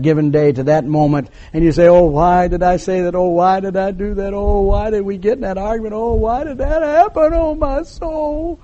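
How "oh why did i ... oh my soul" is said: wailing lament, climbing steadily higher and softer; anguished regret. Acted. Sleepless sinner replaying an argument, mock-anguished wail. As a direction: start near normal and rise into a thin moan. Acts out conscience at night.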